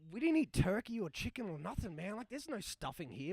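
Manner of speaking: high, loud, laughing disbelief; exasperated laughing. Retold or imitated. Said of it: "I'm like".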